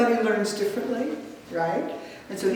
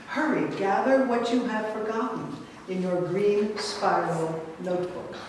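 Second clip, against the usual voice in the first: measured poetic recital with swelling phrases; poem reading. Acted. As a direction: read it as a poem, lingering on line endings. Reads own poem aloud.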